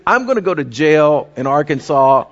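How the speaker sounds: words laughed out through the giggles; half-hysterical laughing line. Retold or imitated. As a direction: passenger cracking up in the speeding car, laughing. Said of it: "by now, I'm hysterical".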